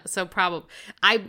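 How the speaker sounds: ordinary delivery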